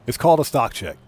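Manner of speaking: chuckling through the punchline; laughing. Shown as a demonstration. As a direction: laugh at your own pun. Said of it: "Ba-dum-tsh".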